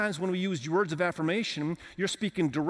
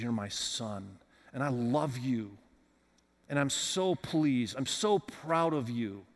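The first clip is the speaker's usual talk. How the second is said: tender father; 4 semitones lower, slower than usual. Acted. God's voice quoted softly.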